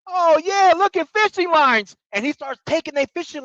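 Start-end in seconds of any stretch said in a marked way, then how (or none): 0.1-2.0 much higher, cocky mock voice; mocking Patrick. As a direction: imitate a smug guy showing off his loot. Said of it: "he's all like".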